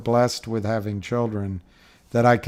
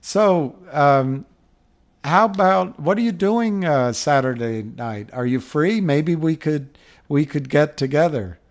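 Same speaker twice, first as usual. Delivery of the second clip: hopeful asking out; 4 semitones higher, 4 dB louder than usual. Retold or imitated. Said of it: "And then he says".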